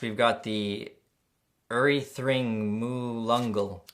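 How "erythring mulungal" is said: "Erythring mulungal" read very slowly, syllable by syllable; slow misreading. Real, not acted. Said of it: "I've been saying it wrong".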